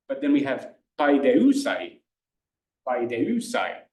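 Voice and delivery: paideusai with a falling end; classical pronunciation. Shown as a demonstration. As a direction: let paideusai fall away. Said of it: "I'll do a classical pronunciation".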